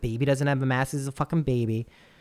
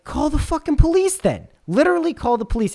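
much higher, louder challenge; retold challenge; 13 semitones higher, 6 dB louder than usual. Noah daring the stranger to call police, loud and high. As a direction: dare him, near shouting.

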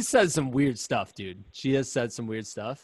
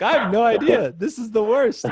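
higher and louder, hammed-up misery; mock despair; 9 semitones higher, 5 dB louder than usual. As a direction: groan it out like it's the worst day ever. Runner miserable at mile fifty.

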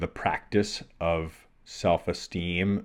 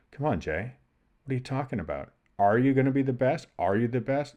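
retold self-questioning; 5 semitones higher, faster than usual. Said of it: "looking at myself and going".

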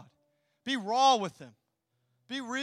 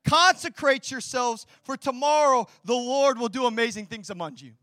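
Joshua's rallying call; 2 semitones higher, 7 dB louder than usual. Pretend. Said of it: "And he says".

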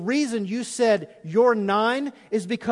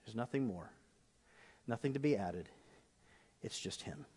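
much softer, lower, near a whisper; hushed communion words; 9 semitones lower, 14 dB quieter than usual. Shown as a demonstration. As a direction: whisper it like a sacred secret. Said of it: "and say".

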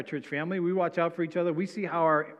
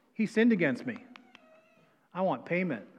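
higher, insistent grudge voice; indignant demand; 4 semitones higher than usual. Retold or imitated. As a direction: voice the wronged man wanting his due. Voicing a vengeful believer.

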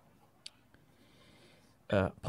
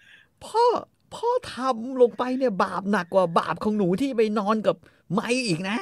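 reproachful daughter; 11 semitones higher, 5 dB louder than usual. Retold or imitated. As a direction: scold her father for his sin. Kay scolding father. (ต่อว่าพ่อเสียงสูงและช้า)

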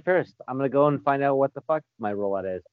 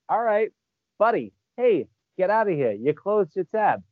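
mock bartender shooing a drunk; 4 semitones higher than usual. Bartender shooing a drunk who keeps coming back. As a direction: shoo the drunk out firmly. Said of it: "I'm like".

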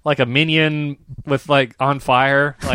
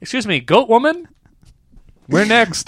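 laughing retelling; 10 semitones higher than usual. Retold or imitated. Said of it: "You said it into my ear".

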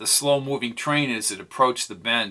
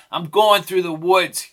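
yelled; 5 semitones higher, 6 dB louder than usual. A narrator's reading. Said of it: "yelled Jake".

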